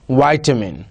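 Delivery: RP "vitamin" with a long i, like "vie-tamin"; British RP. Shown as a demonstration. Teacher modelling RP "vitamin" for students. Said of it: "R P".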